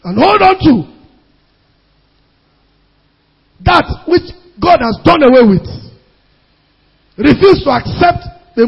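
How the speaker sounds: forceful preaching. Real, not acted. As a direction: preach it out in emphatic bursts with long pauses.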